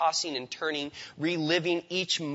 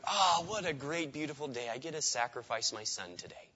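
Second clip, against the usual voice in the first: mock cheerful; 4 dB quieter than usual. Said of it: "didn't jump up early in the morning going".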